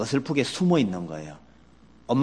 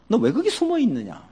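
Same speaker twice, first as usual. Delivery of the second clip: a much higher voice of God calling; 10 semitones higher than usual. Retold or imitated. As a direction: summon the hiding pair. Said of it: "불러내셔요".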